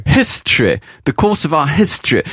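"History" ending in EH, not EE; E final de la reine. Retold or imitated. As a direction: end "history" on the Queen's EH, falling. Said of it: "se termine par un son E et non pas par un son I". ("history" fini par un E, pas un I)

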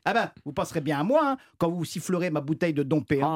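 grudging airport agent, bitterly sarcastic. Retold or imitated. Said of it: "en disant".

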